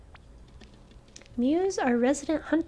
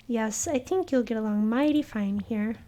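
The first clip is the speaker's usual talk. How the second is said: lightly voiced out-of-towner. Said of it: "If you can't tell from my manner of speaking".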